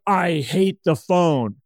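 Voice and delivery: slow, drawn-out complaint; lightly voiced kid refusing veggies, stretching the words; petulant kid. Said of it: "Just like a little kid that hates their veggies".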